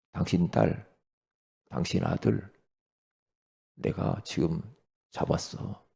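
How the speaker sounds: low, soft, half-whispered threat; a hushed kidnapper's threat over the phone; menacing caller. Retold or imitated. Phone scammer threatening a parent: low, hushed menace.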